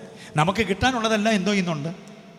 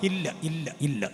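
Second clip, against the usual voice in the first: much softer, listless ഇല്ല; mock glum refusal; 2 semitones lower, 8 dB quieter than usual. Preacher mimicking a negative believer, glum soft no. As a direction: mutter no like a gloomy person.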